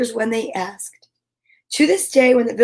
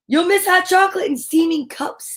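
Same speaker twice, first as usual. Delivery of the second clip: higher, pleading little mouse voice; small mouse; 7 semitones higher than usual. A narrator's reading. Mouse coaxing Bear to stay awake, high and pleading.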